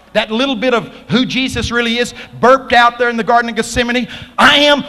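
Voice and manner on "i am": very high, loud burst; sudden booming high declaration; divine proclamation. Retold or imitated. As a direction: blast it out with authority. Repeats the divine name.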